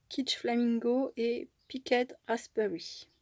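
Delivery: slow English colour names in a French-accented attempt at English; a French crafter's deliberately imperfect English accent; self-mocked English accent. Shown as a demonstration. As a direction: read the English names with a proudly clumsy English accent, taking it slow. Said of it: "Avec mon superbe accent anglais".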